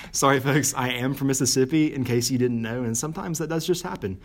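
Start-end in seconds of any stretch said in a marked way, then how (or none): 0.1-0.7 thick Southern twang; country accent. Real, not acted. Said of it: "My country accent has been out lately".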